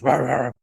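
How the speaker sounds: voiced dog barking at passers-by; imitated dog bark. Dog in the garden hearing people pass, imitated barking. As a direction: imitate a dog's bark without raising the volume. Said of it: "she just goes".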